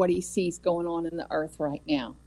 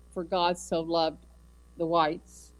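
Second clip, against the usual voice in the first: mock misquote; 2 semitones lower, slower than usual. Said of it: "nowhere does it say that".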